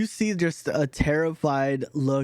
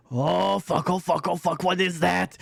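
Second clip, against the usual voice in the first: a touch higher, mild alarm; lightly voiced startled character; 3 semitones higher than usual. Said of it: "he's just like".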